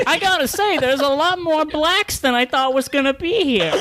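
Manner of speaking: put-on very high old-lady parody voice; mock grandma. Joker parodying grandma at the event, high put-on voice. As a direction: squeak it out as a hammed-up granny. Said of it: "and then was she like".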